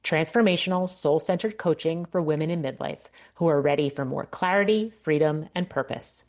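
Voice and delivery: polished, measured promo read; scripted ad read. Acted. Coach pitching her coaching to women in midlife, scripted ad read. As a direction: read it like a podcast sponsor spot.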